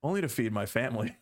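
laughing through the words; joking, half laughing. Real, not acted. Joking about stealing for family.

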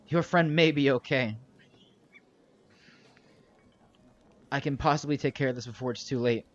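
lightly voiced, portentous old sorcerer; grave old sorcerer. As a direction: deliver the warning in measured pieces with weighty pauses. Game master plays sorcerer Cassius.

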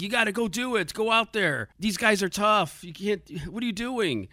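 hammed-up girlfriend rallying her fighter; pep-talk speech. Girlfriend urging her fighter into the fight, mock pep talk. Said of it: "gives, uh, the Swayze character her Adrian speech".

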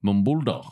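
Mumbulda with a short "mum" and open "dah" ending; Mumbulda, falling onto an open last vowel; guessed pronunciation. Shown as a demonstration. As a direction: guess at Mumbulda, dropping the final L. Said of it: "I'm gonna go".

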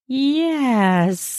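Yes with the S stretched into a long hiss. Acted. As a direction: draw out the S of Yes like a snake. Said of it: "the longest S sound I can muster".

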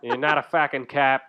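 put-on Boston accent. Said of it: "That's from The Departed".

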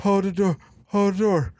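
fading high repeated screams; winding down the screams; screaming. Retold or imitated. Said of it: "he starts screaming".

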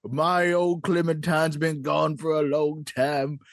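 put-on old prospector. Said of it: "old Prospector wanted to bring something up".

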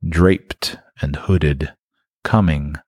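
low, slow whisper. A narrator's reading. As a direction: hush it ominously. Ominous whisper narration.

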